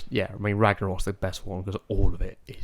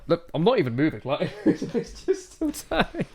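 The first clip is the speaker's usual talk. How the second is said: Thor voice; 9 semitones higher, 3 dB quieter than usual. Retold or imitated. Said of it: "he's just like".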